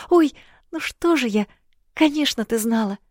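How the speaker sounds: a princess raving about her crush; high excited girlish gush; gushing young girl. A narrator's reading. Princess catching herself.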